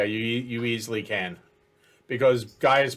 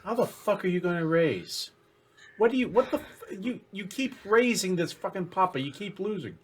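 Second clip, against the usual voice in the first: laughing exasperation; 5 semitones higher, 4 dB quieter than usual. Real, not acted. Exasperated at player raising again.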